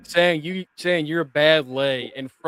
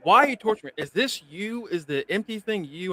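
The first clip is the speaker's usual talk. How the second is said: higher, louder, accusing Daniel; pitched-up pleading accusation at the stalker; Daniel confronting Armand; 6 semitones higher, 4 dB louder than usual. Retold or imitated. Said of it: "and he goes".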